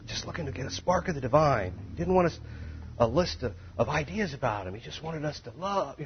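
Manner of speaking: airy mock-spiritual reverend voice; mock soft reverend. Mocking a soft-spoken reverend's vague message. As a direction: breathe it out like a dreamy liberal pastor. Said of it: "You hear guys talk like that".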